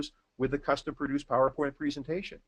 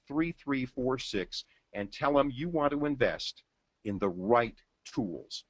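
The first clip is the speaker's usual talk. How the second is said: slow ad read; slower than usual. Acted. Reads order details like ad.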